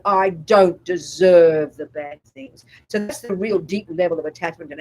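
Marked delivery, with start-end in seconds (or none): 0.1-2.6 slow, drawn-out protest, a touch indignant; mock indignant anger. Voicing anger's complaint for the students, mock indignant. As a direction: play anger insisting, stretched out and louder. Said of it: "anger is saying".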